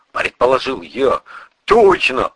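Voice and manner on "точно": loud, high burst of glad agreement; delighted. A narrator's reading. Priest agrees on the word déjà vu, delighted and loud. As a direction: exclaim it, pleased to get the word. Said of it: "обрадовался отец Валерий".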